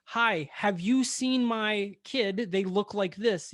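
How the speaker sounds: slow, spelled-out mock inquiry; acted patient question to a passerby; deliberate polite asking. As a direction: ask it slowly, as if modeling it. Models a sensible parent asking.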